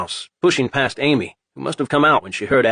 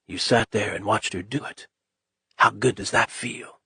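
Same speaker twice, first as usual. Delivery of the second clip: sinister whisper; 2 semitones lower, 6 dB quieter than usual. A narrator's reading. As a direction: taunt him quietly from the dark. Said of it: "And the voice whispered".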